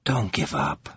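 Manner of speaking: low, quiet pleading, half against himself; torn, soft plea. A narrator's reading. Covenant pleading quietly with Atiaran, torn and soft. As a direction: beg her softly while doubting yourself. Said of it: "in a voice full of self-contradicting pleas".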